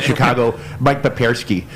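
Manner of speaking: light Chicago accent on the name; hint of a Chicago accent, barely pushed. Shown as a demonstration. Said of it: "I can't say Papierski without doing it in, like, a Chicago accent".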